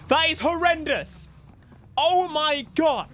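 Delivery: high, loud horrified exclamation; appalled outburst. Real, not acted. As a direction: cry out appalled at the wheels. Appalled at the wheels.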